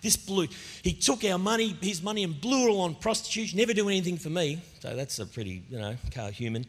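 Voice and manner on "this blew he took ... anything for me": mild mock anger. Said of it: "he comes in and he's angry".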